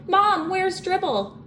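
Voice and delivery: high, slow holler for mom. A narrator's reading. Boy hollering to his mom about the turtle. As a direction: call out in alarm, drawn out.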